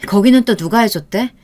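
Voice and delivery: loud, heated defiance; defiant anger. Acted. Girlfriend snapping back at her boyfriend in defiance. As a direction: refuse him, sharp and angry.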